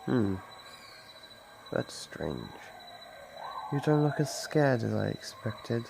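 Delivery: ordinary talk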